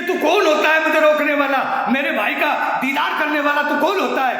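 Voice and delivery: she dresses her son down: who are you to stop me; angry rebuke. Acted. Safiya rebukes her son angrily. (بیٹے کو ڈانٹتی ماں، غصے سے)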